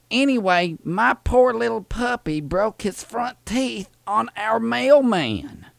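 put-on Southern old lady voice; sweet old lady caller, fussy and polite. Prank caller playing Thelma to the postal clerk, sweet old lady voice.

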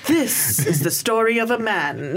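slow, dramatic trailer narrator; lightly voiced trailer announcer; movie trailer voice. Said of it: "the old trailer voice guy style trailers".

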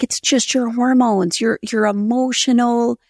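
pep talk. Retold or imitated. Husband to wife after the birth, imitated pep talk. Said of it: "giving me the pep talk".

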